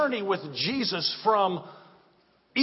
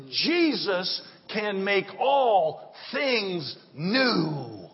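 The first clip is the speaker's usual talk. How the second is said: measured, slow declarations; slow preaching cadence; 2 semitones higher, slower than usual. Acted. Pastor declaring to the congregation, slow and measured. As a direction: lay each promise down slowly.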